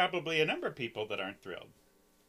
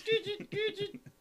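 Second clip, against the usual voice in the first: chirping cricket voice; 3 dB quieter than usual. Pretend. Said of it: "You do a terrible cricket".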